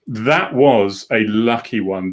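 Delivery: slowed right down, leaning on that; drawn-out, savouring the luck; slow emphatic repeat. Shown as a demonstration.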